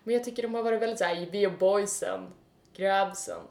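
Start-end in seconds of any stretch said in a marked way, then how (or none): 1.3-3.4 mock bro voice. Mocking macho contestants talk.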